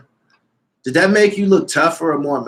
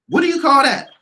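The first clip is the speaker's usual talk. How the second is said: higher insistent question; 10 semitones higher, 3 dB louder than usual. Real, not acted. Repeated question, rising pitch.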